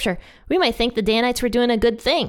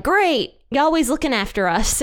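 mock excited; 5 semitones higher than usual. Danites hear the blessing gladly.

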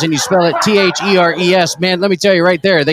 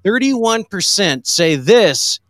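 slow drawn-out ballgame announcer; lightly voiced old-time broadcaster; Harry Carey; much slower than usual. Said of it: "I just sounded like Harry Carey".

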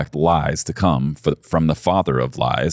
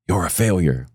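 a hint of an accusing inner voice; voice of the lie. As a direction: lightly voice the lie he keeps hearing. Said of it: "If you're hearing the lies".

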